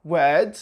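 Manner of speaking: British "word" with silent R; non-rhotic R. Shown as a demonstration. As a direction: say "word" with no R sound, just a long vowel. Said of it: "the R is not pronounced".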